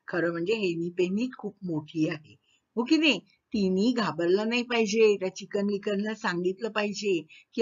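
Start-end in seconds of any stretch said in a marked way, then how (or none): none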